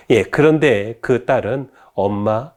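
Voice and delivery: ordinary talk, nothing marked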